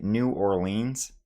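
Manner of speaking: "New Orleans" said in full, new or-LEENS; actual pronunciation. Shown as a demonstration. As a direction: say "New Orleans" with every syllable. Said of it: "I would actually pronounce it".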